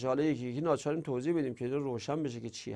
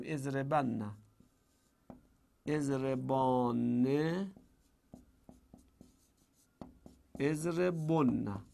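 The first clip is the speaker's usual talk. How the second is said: «اضربن، اضربانه، اضربن» said slowly, each form apart; slow conjugation drill; 4 semitones lower, 5 dB quieter, much slower than usual. Shown as a demonstration. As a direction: recite the forms slowly for the class. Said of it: "من خودم صرف کنم". (صرف کردن آهسته و شمرده)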